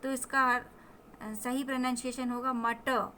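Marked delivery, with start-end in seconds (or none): 2.5-3.1 "मटर" as mutta, final r left unsounded; silent final r. Shown as a demonstration. Teacher giving the correct pronunciation, r dropped at the end. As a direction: let the r of "मटर" stay in the mouth. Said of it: "रा आपके मुंह में ही रह जाएगा".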